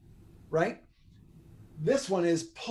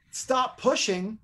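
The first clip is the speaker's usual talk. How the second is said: 1 slow stern command; 5 semitones higher, much slower than usual. Shown as a demonstration. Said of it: "'Cause if I start out with".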